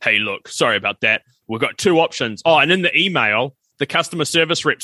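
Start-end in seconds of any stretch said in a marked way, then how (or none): 0.0-2.4 deep radio announcer voice. Retold or imitated. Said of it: "a really deep radio announcer's voice".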